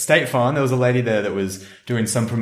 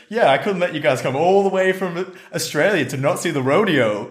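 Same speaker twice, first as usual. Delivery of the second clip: higher, friendly Texan lady voice; high Texan twang; Texan accent; 7 semitones higher than usual. Retold or imitated. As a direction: imitate a kindly Texan explaining herself. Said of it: "exactly that accent".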